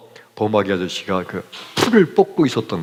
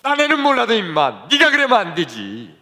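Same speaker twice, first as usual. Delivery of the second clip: mild scolding; 8 semitones higher than usual. Retold or imitated. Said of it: "하는 말씀이".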